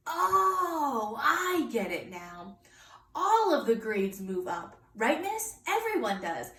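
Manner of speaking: put-on bright, eager little-girl discovery; light up as it clicks; excited realization. Junie B. finally understands the grades, lightly excited.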